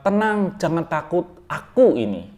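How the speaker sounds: "Tenang, jangan takut, aku ini" with aku ini moved to the end; wrong word order. Shown as a demonstration. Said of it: "Bukan begitu".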